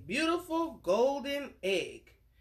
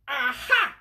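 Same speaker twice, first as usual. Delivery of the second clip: loud triumphant aha; scream; 5 semitones higher, 8 dB louder than usual. Acted. Giant spots the thief, screaming. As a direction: shout it as you catch him. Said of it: "he screamed".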